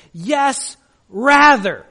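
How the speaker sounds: loud falling "rather" after a light "Yes"; stress on rather. Shown as a demonstration. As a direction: land "rather" like a verdict. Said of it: "the emphasis on his resurrection".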